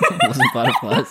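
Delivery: high squealing laugh through words. Real, not acted. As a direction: laugh while saying it. Laughing hard.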